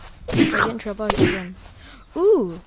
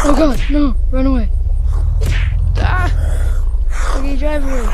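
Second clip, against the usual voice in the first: panicked shout; 4 semitones higher, 10 dB louder than usual. Real, not acted. Chased by zombies.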